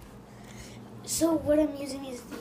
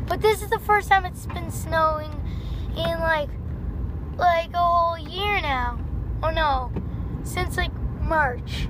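louder, higher eager talk; excited; 3 semitones higher, 4 dB louder than usual. Real, not acted. Vlogger excited about first snow, louder. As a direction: gush about it.

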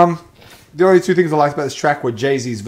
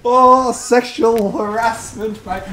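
high, loud, slow mock cry of outrage; 6 semitones higher, 3 dB louder, slower than usual. Real, not acted. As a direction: wail it in fake shock.

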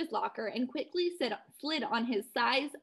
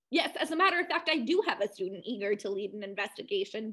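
put-on Ivy League accent; faster than usual. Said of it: "I went full-blown Ivy League".

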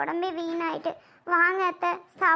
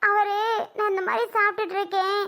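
higher, tremulous apology through tears; tearful apology; 3 semitones higher than usual. Acted. Daughter-in-law tearfully apologising to her mother-in-law. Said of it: "ஏம்மா அழுகுற?".

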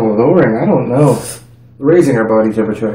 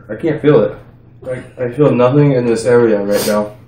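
numb stinging mouth; mouth burning from spicy food. Real, not acted. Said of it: "It, it stings".

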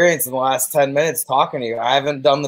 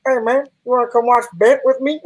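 lonely self in the car; 8 semitones higher than usual. Retold or imitated. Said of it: "just being like".

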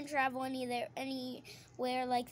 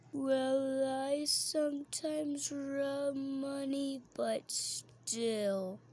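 mock put-on voice; much slower than usual. Girl redoes her own line slowly in a silly voice.

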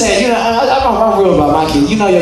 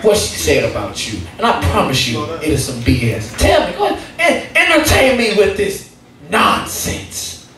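reassuring dad speech; 3 semitones lower, 3 dB quieter than usual. Retold or imitated. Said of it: "My speech goes a little something like this".

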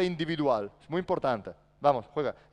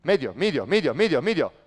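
loud repeated call; shouting; 5 dB louder than usual. Shown as a demonstration. Coach making the player shout the call, loud. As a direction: yell it across the court.

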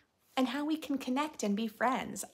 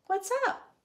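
voiced child greeting; 11 semitones higher than usual. Signing character greeting voiced.

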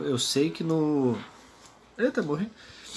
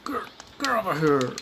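Scorpion catchphrase; 5 semitones higher than usual. Retold or imitated. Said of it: "quero fazer o Scorpion".

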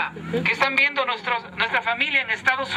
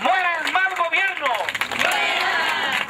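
booming rousing general speech; 3 semitones higher, slower than usual. Real, not acted. Rally chant to the crowd.

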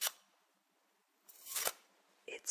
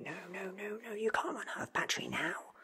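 higher, louder flustered protest; mock panic; 9 semitones higher, 4 dB louder, faster than usual. The Doctor panicking as the robot's battery dies, voiced and louder.

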